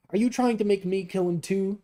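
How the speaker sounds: put-on young warrior shouting at the guardian; furious outburst. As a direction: hurl the question in outrage. Gunnar furious at suggestion.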